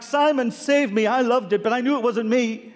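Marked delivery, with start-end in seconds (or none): 0.0-1.1 a mock call from the back of the church; retold shout. Young man calling to the pastor from the back, a mild mock shout. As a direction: lightly call out a plea across the room. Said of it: "he'd shout from the back".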